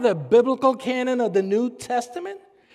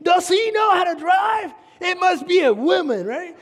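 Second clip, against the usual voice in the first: mock road rage, hammed-up annoyance; impatient driver; 5 semitones higher than usual. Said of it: "and you're like".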